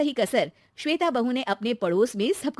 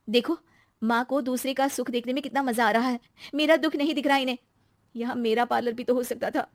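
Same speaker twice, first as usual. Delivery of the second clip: higher-pitched resentful complaint; bitter daughter-in-law; 3 semitones higher than usual. Acted. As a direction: grumble about mother-in-law. Narrator voices bitter wife. (कुढ़ती हुई बहू)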